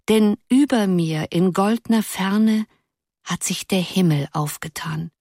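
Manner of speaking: soft, solemn poem recital; soft declamation. A narrator's reading. Girl reciting Uhland's verses to her friends in a soft voice. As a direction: recite the verses softly, lingering on the line ends. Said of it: "mit einer weichen Stimme zu deklamieren".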